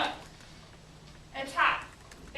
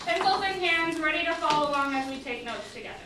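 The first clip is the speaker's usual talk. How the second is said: faster, brisk classroom instruction; brisk repeat. Real, not acted. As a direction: rattle it off quickly to the class. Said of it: "repeated instruction, faster".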